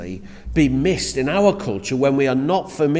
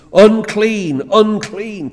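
higher, loud warning cry; shouting unclean; 6 semitones higher, 6 dB louder, much slower than usual. Retold or imitated. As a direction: call it out to keep people away. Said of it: "they had to shout at their top of".

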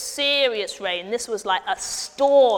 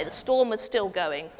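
ordinary talk

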